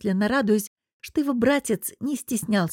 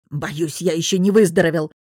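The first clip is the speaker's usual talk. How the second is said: backpedalling boss; 3 semitones lower, 4 dB louder than usual. A narrator's reading. Boss backing out of the visit, sickly excuse. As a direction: lower boss voice pleading illness. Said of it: "Кашлянув, босс тут же пошёл на попятную".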